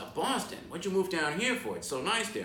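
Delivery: high-pitched retold astonishment; surprised mock reply. Guide retelling the mayor hearing of his move, surprised. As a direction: imitate someone baffled, pitch jumping up.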